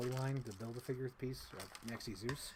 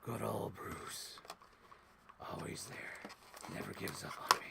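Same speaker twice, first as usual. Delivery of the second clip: quoted character; 4 semitones lower, 4 dB quieter than usual. Pretend. Quoting character from episode.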